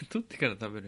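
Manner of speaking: fast, laughing disbelieving 取ってから食べる？ with a rise at the end; surprised echo. Real, not acted. Host echoing the co-host's picky habit, amused disbelief.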